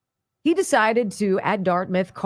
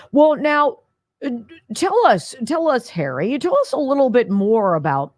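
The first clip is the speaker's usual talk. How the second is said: higher, lightly hammed anchor prompt; mock anchor voice; 4 semitones higher than usual. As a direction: play the leading news anchor. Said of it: "It's such a setup".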